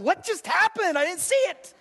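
high, baffled mock confusion; a dazed bystander who missed the point; bewildered onlooker. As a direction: play the lost spectator, lightly hammed-up. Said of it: "And I'm going".

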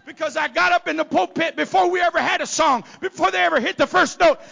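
shouted high preaching climax; full-force revival preaching. Acted. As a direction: preach it loud to the rafters.

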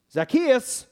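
furious outburst. Acted. Father hears the hated tax collector is at his door, shouting in anger. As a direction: shout the name in sudden rage, high and loud.

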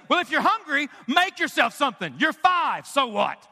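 acted-out harsh brush-off of a child; imitated impatient scolding; mock dismissive parent. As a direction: play an uncaring parent scolding a little kid. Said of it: "That's how some of you think that God talks".

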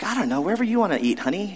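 breezy, noncommittal dodge; passive-aggressive. Retold or imitated. Husband dodging his wife's question, mock breezy.

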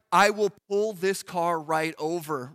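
slow, deliberate warning; a driver warning the backseat driver in a mock threat; mock parental threat. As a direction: say it like a fed-up parent driving. Threatening backseat-driving Jesus.

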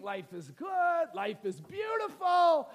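slow, drawn-out rapture; elated. Acted. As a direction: stretch each phrase out in bliss. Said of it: "he's elated. He's stoked".

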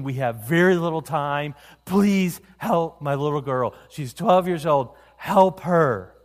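impassioned plea. Retold or imitated. Father begging Jesus to save his daughter, impassioned. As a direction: beg desperately for a little girl's life. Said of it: "a very impassioned plea saying".

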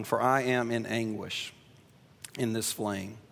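calm reading aloud; scripture reading. Acted. Reads the parable aloud.

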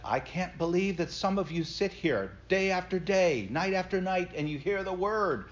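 a Scottish pastor scolding his flock; Scottish accent. Retold or imitated. Mimicking Alistair Begg's Scottish accent on the radio, scolding. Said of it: "in his charming, uh, Scottish accent".

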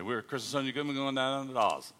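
Australian-accented introduction. Shown as a demonstration. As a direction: introduce the couple in Aussie speak. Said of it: "I speak Australian".

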